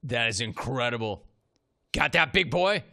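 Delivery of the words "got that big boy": louder, higher mock challenge; playful imitation of a tough-guy taunt; mimicked taunt. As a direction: echo the coach's put-down with punch. Host mimics the coach's taunt.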